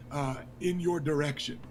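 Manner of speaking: ordinary delivery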